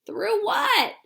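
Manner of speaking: high, alarmed question shout. Acted. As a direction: call out in worried surprise. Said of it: "shouted Grandpa Joe".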